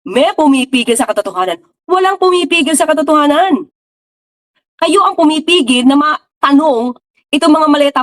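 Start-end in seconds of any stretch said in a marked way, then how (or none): 0.1-1.6 "May" stressed, falling, as their false story; mocking their claim. Shown as a demonstration. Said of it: "yun yung naratibo gusto nilang". 1.9-3.7 "Walang" punched with a falling tone; firm correction. Real, not acted. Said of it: "yun yung naratibo gusto nilang".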